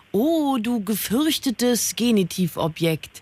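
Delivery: slow, hammed-up solemn address; a playful ode to a once-feared foe; mock dramatic apostrophe. (gespielt feierliche Anrede, langsam)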